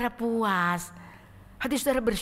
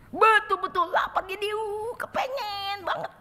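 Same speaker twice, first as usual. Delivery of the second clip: aching longing; 13 semitones higher, 4 dB louder than usual. Acted. Preacher acts craving.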